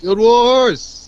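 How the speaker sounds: excited shout. Real, not acted. Cheering a game's name.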